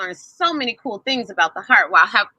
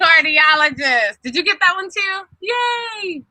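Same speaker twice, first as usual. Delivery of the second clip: excited confirm; 6 semitones higher than usual. Real, not acted. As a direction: announce the right answer proudly. Teacher confirms answer loudly.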